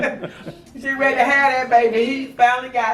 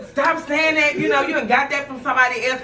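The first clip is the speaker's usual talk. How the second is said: mildly indignant, higher retold protest; annoyed daughter; 4 semitones higher than usual. Daughter fed up with mother's teasing, mildly annoyed. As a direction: lightly mimic a fed-up daughter. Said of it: "would get so angry with me".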